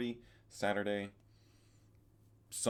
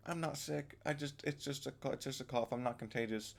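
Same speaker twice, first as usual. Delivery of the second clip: mock friend voice; 7 semitones higher than usual. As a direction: mimic a friend playing it down, higher. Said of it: "she was like".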